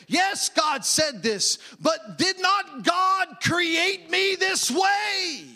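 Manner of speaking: tempted Eve. Retold or imitated. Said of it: "He is trying to get her to say".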